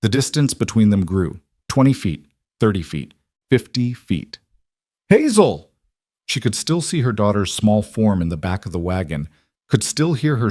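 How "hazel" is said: high loud scream of the name. A narrator's reading. Mother screaming to her daughter far away. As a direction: throw the name after the wagon.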